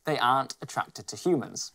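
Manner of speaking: measured wildlife narrator voice; nature documentary. Acted.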